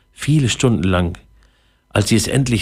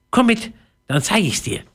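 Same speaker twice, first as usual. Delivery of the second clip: very high, tiny mouse voice; squeaky little voice; 10 semitones higher than usual. A narrator's reading. Mouse to a newcomer behind her, high squeaky voice. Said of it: "ein piepsendes Stimmchen".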